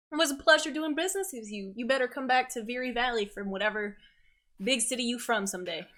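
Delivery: put-on quick, lightly accented friendly shopkeeper; brisk farewell in a hint of country trader; lightly voiced shopkeeper. Shopkeeper to departing customer, quick and lightly accented.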